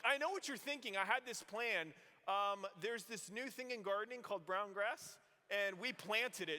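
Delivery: cheeky excuse. Retold or imitated. Boy bluffing to mom about the burnt lawn, cheeky. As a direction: sell the lie with innocent confidence.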